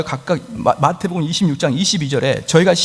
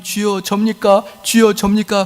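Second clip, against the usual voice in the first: anxious disciples; 5 semitones higher, slower than usual. Acted. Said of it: "남들이 사람들이".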